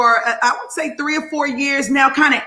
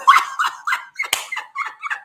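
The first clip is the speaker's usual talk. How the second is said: high, delighted cackle; high laugh. Real, not acted. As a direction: burst out laughing. Laughs after her own cheer.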